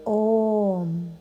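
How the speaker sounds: guided meditation, long pauses. Acted. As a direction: lead a yoga nidra, unhurried. Leads a yoga nidra meditation.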